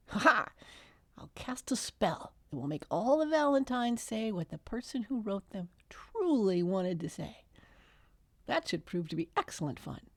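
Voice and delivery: a mischievous fairy plotting a spell; gleeful fairy. Acted. Fairy tells Margaret his spell plan, gleeful then hushed.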